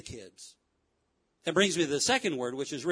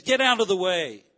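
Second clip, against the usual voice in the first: firm, louder angry command; 5 dB louder than usual. Acted. Preacher repeating Jesus's rebuke, angry and firm. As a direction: say it firmly, with contained anger. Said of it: "he ever really gets angry".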